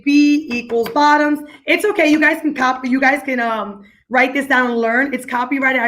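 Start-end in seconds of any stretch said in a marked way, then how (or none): 0.0-1.4 slow teaching demo. Shown as a demonstration. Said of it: "And then we'll say".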